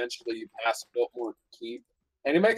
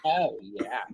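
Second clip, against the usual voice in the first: surfer dude; slower than usual. Pretend. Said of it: "surfer dude going".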